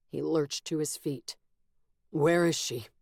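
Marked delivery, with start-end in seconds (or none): 2.1-2.9 strained calm. A narrator's reading. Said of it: "He tried to make his voice calm".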